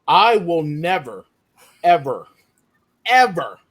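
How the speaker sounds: NEVER, ever, ever, each set apart with pauses; emphatic vow. Real, not acted. Author swearing off a dialect to the panel, emphatic. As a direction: hit each "ever" hard and let it fall.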